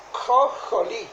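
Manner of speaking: "jolí" with a first syllable tried on its own; Hebrew word demonstrated. Shown as a demonstration. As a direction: sound out "jo-, jolí" for learners, starting on the J sound. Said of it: "cada kilo J O I".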